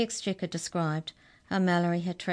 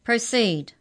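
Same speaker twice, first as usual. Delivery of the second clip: commanding; 6 semitones higher, 8 dB louder than usual. Acted. Judge giving court order.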